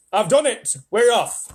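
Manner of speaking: high, loud triumph; triumphant shout. A narrator's reading. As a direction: crow it down through the hole.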